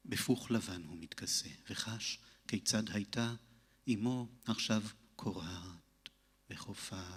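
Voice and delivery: measured poem recitation with long pauses; poetry reading. Acted. Reads own poem in Hebrew. (lecture de poème, posée)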